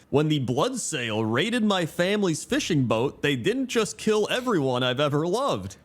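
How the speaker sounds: lightly voiced pirate storyteller, rising pitch; Cook Lastwind. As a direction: declaim it as a pirate's tale, lightly acted. Quoting pirate cook's backstory.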